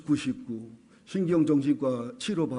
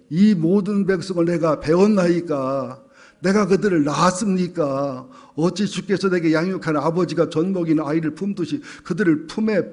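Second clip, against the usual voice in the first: dramatic scripture reading; 4 dB louder than usual. Acted. Pastor reading Moses's protest to God, dramatic scripture reading. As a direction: read Moses's protest out as a mild plea.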